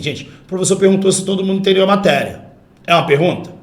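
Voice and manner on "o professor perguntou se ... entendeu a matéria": level statement tune, falling at "matéria"; reported question. Shown as a demonstration. Teacher shows an indirect question, declarative falling tone. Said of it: "Eu tô falando assim".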